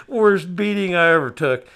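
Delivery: loud. Real, not acted. Punchline of the story.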